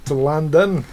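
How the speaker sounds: a light, playful put-on accent, slowing on "from New York". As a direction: tease the listeners in a half-hearted accent. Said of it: "I don't know why I'm doing an accent".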